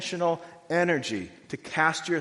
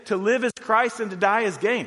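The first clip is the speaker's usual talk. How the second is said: proclaimed quote; 8 semitones higher, 6 dB louder than usual. Retold or imitated. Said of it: "That's why he say".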